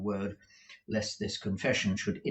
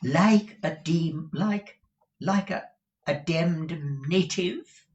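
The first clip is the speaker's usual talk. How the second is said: high, slow, drawn-out question; affected Mr Mantalini; 9 semitones higher, 6 dB louder, slower than usual. Acted. Husband butts in on the interview, affected high drawl.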